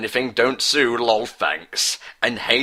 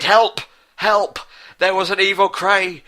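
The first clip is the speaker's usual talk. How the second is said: much higher, louder panicked cries; cry for help; 9 semitones higher, 3 dB louder than usual. Acted. Boy falling into a crater, crying out high and loud. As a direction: shriek for help as you fall. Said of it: "He cried".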